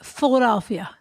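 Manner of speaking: lightly done Philly local accent; Philadelphia accent. Shown as a demonstration. Host tries out the local accent for her co-host, Philadelphia accent. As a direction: say it like a Philadelphia native. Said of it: "I like to do accents".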